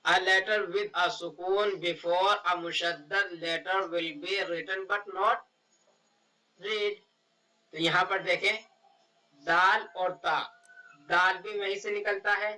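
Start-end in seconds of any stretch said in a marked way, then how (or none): 0.1-7.0 reading a definition slowly. Shown as a demonstration. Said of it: "इसकी देखें definition".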